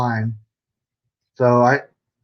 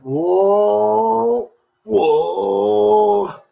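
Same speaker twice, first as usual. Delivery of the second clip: amazed whoa; 7 semitones higher than usual. Real, not acted. Admiring toy car.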